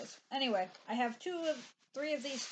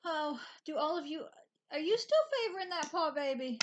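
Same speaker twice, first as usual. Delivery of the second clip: higher-pitched cooing to a dog; doting pet talk; 6 semitones higher than usual. Real, not acted. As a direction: ask it like you're fussing over your dog. Talking to her limping dog.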